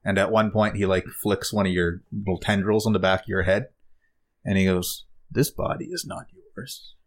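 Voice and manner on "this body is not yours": high, soft whispery alien voice; eerie alien. Acted. Alien studies the stranger's body, eerie whispered accusation.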